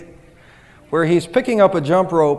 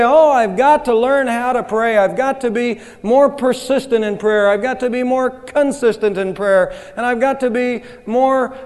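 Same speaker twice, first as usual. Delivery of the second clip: earnest resolve; 5 semitones higher than usual. Retold or imitated. Congregation's earnest resolution voiced.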